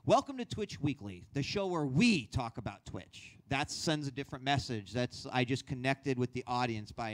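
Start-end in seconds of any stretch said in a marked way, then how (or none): 0.1-3.3 warm intro with stress on we. Shown as a demonstration. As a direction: lean into the word we to connect. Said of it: "emphasizing certain words to bring warmth".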